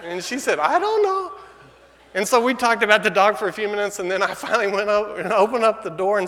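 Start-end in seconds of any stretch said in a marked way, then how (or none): 0.6-1.3 much higher, louder, laughing through it; laughing wife. Retold or imitated. Wife answering husband about the dog, laughing high. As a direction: giggle it in disbelief.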